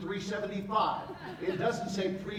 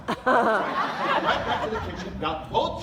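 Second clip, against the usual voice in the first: louder, slower, laughing through the words; 5 semitones higher, 8 dB louder, slower than usual. Real, not acted. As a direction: laugh it out while telling the story. Laughing through the syrup story.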